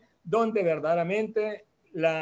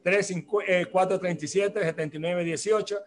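slightly more deliberate number readout; a little slower. Real, not acted. Radio host repeats the phone number to listeners, a little slower. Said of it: "Se lo repito más despacito".

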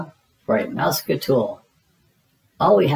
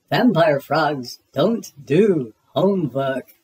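mock vampire; slower than usual. Froggy in vampire role.

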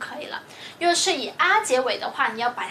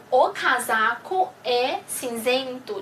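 slow model reading; slower than usual. Shown as a demonstration. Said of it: "灰色我们怎么说呢".

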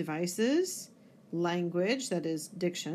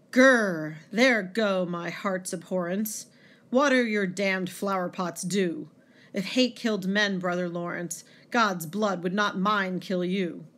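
louder dramatic poem reading, growled opening; poem with feeling; 5 dB louder than usual. Acted. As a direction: read the hateful monologue with feeling. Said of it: "read the poem with much feeling".

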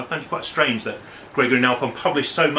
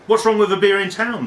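put-on Singapore accent, higher and louder; 9 semitones higher, 6 dB louder than usual. The gentleman pushing back at his friend, higher and louder in a Singapore accent. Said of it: "bad Singapore accent".

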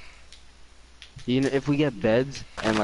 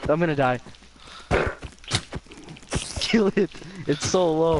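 panicking gamer; 4 semitones higher than usual. Real, not acted. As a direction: yell in panic at the mob. Fighting mob, low health.

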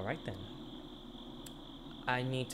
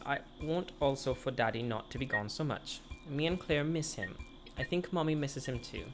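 put-on a light child voice reading a wish list; lightly voiced little boy; 3 semitones higher, 3 dB quieter than usual. Reads child's letter aloud.

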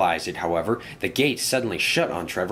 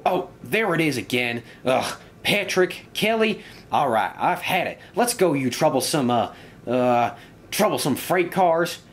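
confidence turning to higher-pitched exasperation; grumpy engine; 4 semitones higher than usual. Acted. Engine alone counting trucks, growing exasperated and higher. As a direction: count off, then burst out fed up.

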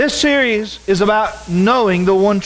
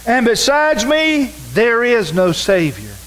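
raised, measured preaching read; preacher reading Isaiah aloud; scripture reading; 2 semitones higher than usual. Acted. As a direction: proclaim the verses to the congregation. Reads scripture aloud in sermon.

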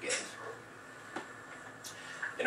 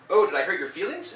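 imitating a childish taunt, higher and louder; mock him like a taunting kid, pitched up; 7 semitones higher, 6 dB louder than usual. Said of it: "Peter said in a mocking voice".

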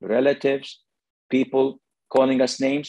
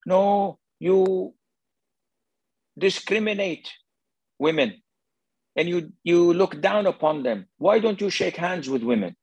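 higher, indignant critic; accusing critic; 5 semitones higher than usual. Acted. Critics challenging the sheikh over handshakes, accusing. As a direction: imitate people scolding you. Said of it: "you will usually say".

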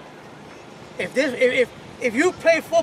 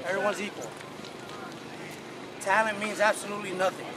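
rally the team, rising fire; building pep talk; 3 semitones lower, 4 dB quieter than usual. Real, not acted. Coach building pregame speech.

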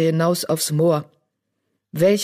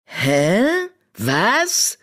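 startled; 5 semitones higher than usual. Acted. Charlie startled by decision.

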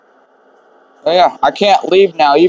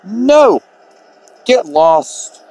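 sharp, higher-pitched acted no; irritated refusal; 5 semitones higher, much slower than usual. Resident answering an unwanted caller at the door, irritated refusal. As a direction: turn the caller away with a high, annoyed burst.

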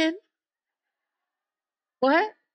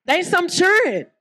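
Southern pronunciation; 7 semitones higher, slower than usual. Shown as a demonstration. Preacher showing how the South says church kids. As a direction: say "They some churn" with a Southern drawl. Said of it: "that's how we say it in the South".

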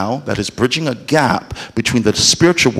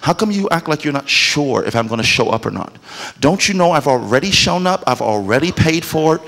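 voice of God, puzzled; 3 semitones higher, 3 dB quieter than usual. Retold or imitated. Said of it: "God's going".

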